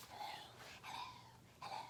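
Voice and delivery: breathy snake hiss, whispered. Acted. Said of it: "They all hissed hello".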